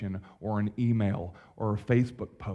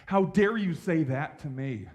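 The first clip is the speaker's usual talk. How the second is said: mock indignant retort; 5 semitones higher than usual. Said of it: "we react to that statement".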